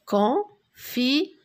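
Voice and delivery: "Confiture" slow, with shorter gaps between syllables; syllables closer together. Shown as a demonstration. Teacher turning syllables into a word, syllables closer together. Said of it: "Je forme des mots avec des syllabes".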